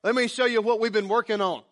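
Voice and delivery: mock excited showing off; hammed-up eager homeowner; proud host. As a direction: show off the joists proudly. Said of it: "takes them over and says".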